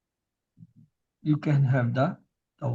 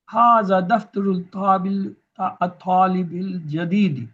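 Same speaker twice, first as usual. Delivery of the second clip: brisk example; 2 semitones higher, much faster than usual. Shown as a demonstration. Teacher quickly reading an Arabic example to students, fast. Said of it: "Let's have another example".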